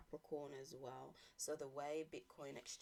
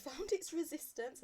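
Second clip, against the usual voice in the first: words pushed out on a burp; 13 semitones higher, 9 dB louder than usual. Real, not acted. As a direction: talk through a burp. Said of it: "confirmation burp".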